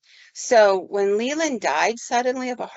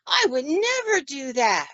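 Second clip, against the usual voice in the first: imitating an upset old woman's slow, higher plea; agitated plea; 5 semitones higher than usual. Confused patient pleading with unseen Leland, mildly agitated. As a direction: lightly act out her rising agitation. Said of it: "She got really agitated and she goes".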